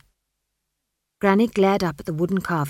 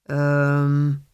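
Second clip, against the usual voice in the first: hesitant um; 4 semitones lower, 5 dB louder than usual. Acted. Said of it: "not quite aware of how to begin".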